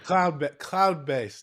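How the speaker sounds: slow, deliberate "Cloud-based" with a clear K; careful enunciation. Shown as a demonstration. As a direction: spell out "Cloud-based" slowly, each sound clear. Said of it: "it sounded like card or cog-based".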